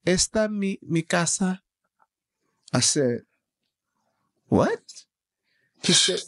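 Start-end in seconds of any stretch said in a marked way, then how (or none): 0.1-1.6 imitated Spanish accent. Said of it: "forgive me of this accent". 4.5-5.0 high, rising, incredulous question. Retold or imitated. Acts out his disbelief in the story.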